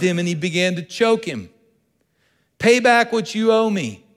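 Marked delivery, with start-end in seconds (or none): 2.6-4.0 a hint of a harsh demand, louder and higher; mildly mock a creditor's demand. Servant demanding payment from his debtor, mock harsh. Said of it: "he demanded".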